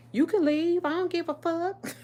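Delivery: high, loud, laughing defiance; loud high dismissive shout; defiant yell. Retold or imitated. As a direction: shout him off, half laughing. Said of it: "And I'm like".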